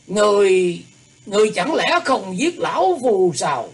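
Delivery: put-on startled high old man's question; surprised old man. A narrator's reading. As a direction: gasp it out in disbelief. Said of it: "hơi ngạc nhiên rồi hỏi lại".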